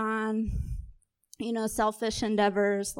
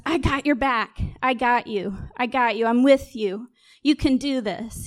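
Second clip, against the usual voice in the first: upbeat, louder pep talk; rally them like a cheerleader; encouraging cheer; 4 dB louder than usual. Retold or imitated. Voicing God as cheerleader.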